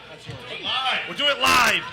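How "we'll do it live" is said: yells the line; shouted catchphrase. Pretend. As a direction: belt out the catchphrase.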